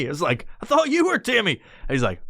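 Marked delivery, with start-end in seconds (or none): 0.6-1.6 high, squeaky comic confusion; alarmed confusion. Retold or imitated. Stoner answering imaginary friend, confused and alarmed. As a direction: squeal it, thrown off.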